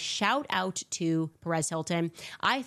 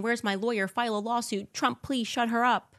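mock panicked elite; 5 semitones higher than usual. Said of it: "then it's running, running".

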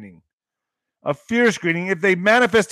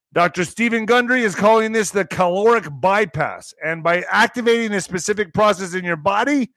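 ad read. Acted. Reads a sponsor ad.

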